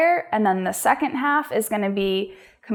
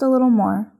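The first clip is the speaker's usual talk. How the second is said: yoga instruction. Acted. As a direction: guide each breath unhurriedly, with long pauses. Leads a yoga practice.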